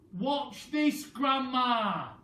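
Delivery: shouting. Acted. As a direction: shout it up to Grandma on the roof. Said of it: "he shouted".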